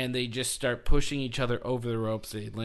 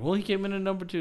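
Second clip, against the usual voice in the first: lightly voiced announcer, higher; mock announcer; 7 semitones higher, much faster than usual. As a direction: quote the announcer in a put-on voice. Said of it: "he goes like".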